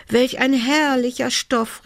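high elf exclamation; delighted cry. A narrator's reading. Elf discovers the handkerchief fabric, crying out in delight. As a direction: marvel in a high, put-on elf voice. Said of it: "rief sie".

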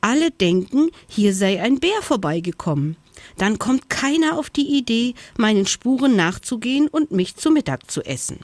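high, straining hare voice, fast at the end; a high, lightly panting hare. A narrator's reading. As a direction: keep panting like a worn-out hare. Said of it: "keuchte der Hase angestrengt".

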